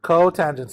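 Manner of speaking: "Cotangent" said clearly, co then tangent; teacher showing how "Cotangent" sounds; pronunciation demonstration. Shown as a demonstration. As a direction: model "Cotangent" before the class joins in. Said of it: "Say it with me".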